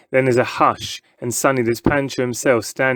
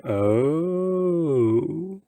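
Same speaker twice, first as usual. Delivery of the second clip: fish mouthing oh; 5 semitones higher, 4 dB quieter than usual. A narrator's reading.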